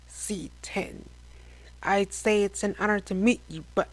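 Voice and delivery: hissing raspy bug voice; a hint of alien menace; alien pirate voice. Pirate boss addresses hero.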